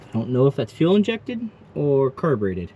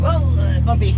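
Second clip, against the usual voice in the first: startled whoa; 9 semitones higher, 3 dB louder than usual. Real, not acted. Hits bumps while driving.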